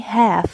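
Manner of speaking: "half" said as "haf", L silent; "half" with no L sound. Shown as a demonstration. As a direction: drop the L in "half". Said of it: "وال L silent".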